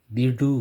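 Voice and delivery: விடு with short i and a loud, full oo ending; full final u. Shown as a demonstration. Teacher showing students how விடு is said, full final u. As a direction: punch a complete u at the end of விடு. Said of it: "அப்படின்னு இங்க உச்சரிப்பீங்க".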